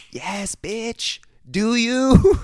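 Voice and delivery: high, sassy falsetto hype; campy cheering. Acted. Viewers egging on the princess, campy high cheer. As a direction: cheer her on in a put-on high voice.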